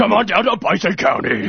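local ad voice. Acted. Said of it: "That's the voice I should have done".

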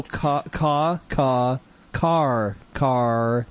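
car stuttered ca- ca- then said full; broken up car. Shown as a demonstration. Teacher demo: car broken into syllables. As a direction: break car into ca- sounds before saying car. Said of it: "That's how you say car".

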